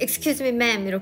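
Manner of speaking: put-on blunt, curt tone. Retelling how people holding phones got told off, mimicking a curt scold. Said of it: "아주 그냥 퉁명스럽게".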